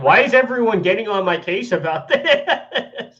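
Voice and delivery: high whiny mock voice, laughing; mocking whiny quote. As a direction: whine it out mockingly while laughing. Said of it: "he's like".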